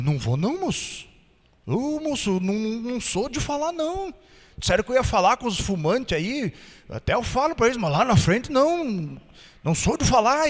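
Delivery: a touch of shy mumbling; softly duck the request; timid refusal. Retold or imitated. Shy miner telling the pastor no: mild timid murmur. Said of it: "tímido".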